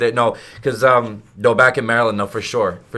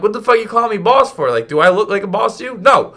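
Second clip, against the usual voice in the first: higher, louder mock outrage; indignant outburst; 8 semitones higher, 6 dB louder than usual. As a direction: act offended at the nickname. Annoyed at being called boss.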